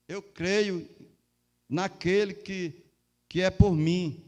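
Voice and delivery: building to a loud proclamation; rising shout of belief; loud confession of faith. Acted.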